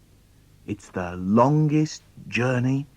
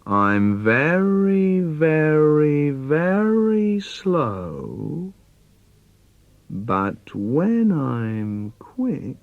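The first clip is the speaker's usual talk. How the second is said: very slow, drawn-out mock menace; dad teases his son before the chase; creeping monster dad; 2 semitones higher, much slower than usual. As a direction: stretch it out like a lumbering beast.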